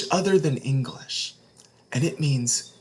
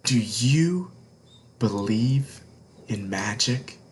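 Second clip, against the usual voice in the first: put-on a secret whispered to young listeners; hushed whisper; 3 semitones lower than usual. A narrator's reading. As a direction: lean in and whisper the question. Hushed opening question to children.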